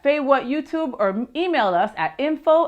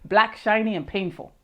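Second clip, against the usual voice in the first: bad impression. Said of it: "I do really bad impersonations".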